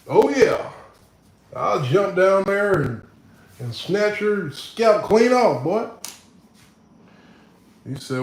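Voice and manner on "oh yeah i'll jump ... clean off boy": higher, slow mock cowboy threat; mock threat to a Texas viewer, higher and slow; hammed-up Texan tough. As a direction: drawl it out like a rowdy cowboy.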